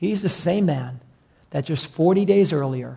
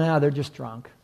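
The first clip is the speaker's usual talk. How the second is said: scoffing; 2 semitones lower, 5 dB quieter than usual. Retold or imitated. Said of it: "other people are scoffing".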